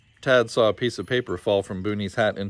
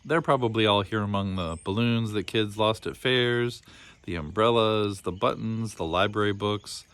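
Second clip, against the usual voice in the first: lightly voiced old caretaker. Old Booney explains the boondocks to the lost boy, lightly voiced. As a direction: explain the place like a friendly old keeper.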